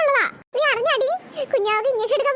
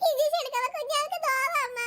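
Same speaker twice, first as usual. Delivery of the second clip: tearful plea to mother; weepy, pitying complaint; crying; 2 semitones higher than usual. Acted. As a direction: whimper it to mother through tears. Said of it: "അതിനാണ് ഇത് കരയുന്നേ ചേച്ചിമാര്".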